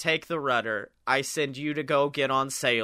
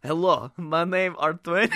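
odd voice. Retold or imitated. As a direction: boom it like a strange giant. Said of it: "that's a very interesting voice you have there".

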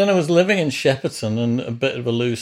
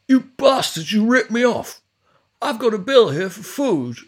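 high, loud, outraged mimicked yell; hammed-up drunk accusing the band; mock furious Chris; 10 semitones higher, 4 dB louder than usual. Owner bursting in over the food bill, high mock outrage. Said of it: "he'd burst into the room and go".

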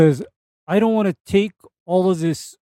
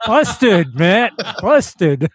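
teasing; 3 semitones higher, 4 dB louder, much slower than usual. Real, not acted. Teasing a caught host.

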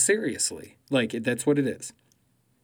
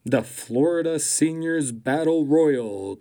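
announcer voice; 3 semitones higher, 4 dB louder than usual. Shown as a demonstration. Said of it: "Let me try that again".

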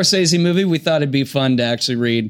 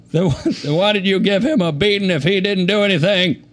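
Bill Clinton; 5 semitones higher than usual. Acted. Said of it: "play this role as Bill Clinton".

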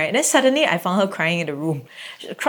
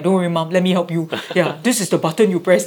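voice breaking. Retold or imitated. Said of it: "You know, voice breaking".

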